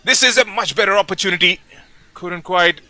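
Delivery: live football call bursting with urgency; excited commentary. Real, not acted. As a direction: voice climbing to a loud, high peak, then easing. Chance builds in live match commentary.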